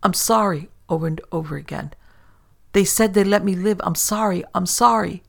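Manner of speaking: plead, broken by guilt; guilty merchant begging forgiveness; desperate apology. Acted. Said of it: "Papin merely repeated".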